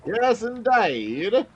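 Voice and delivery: very slow, high Cockney drawl; Cockney accent. Acted. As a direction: stretch each word in Cockney. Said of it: "Stay in it".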